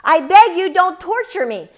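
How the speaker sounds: lightly voiced demon begging for mercy; pleading demon. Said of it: "The demons use the name of God".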